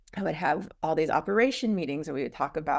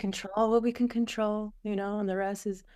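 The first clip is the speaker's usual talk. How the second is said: calm reassurance; 3 semitones higher than usual. Retold or imitated. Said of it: "I was like".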